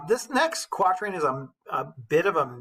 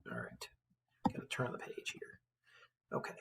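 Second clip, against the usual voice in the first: whispering; 17 dB quieter than usual. Real, not acted. Whispered aside.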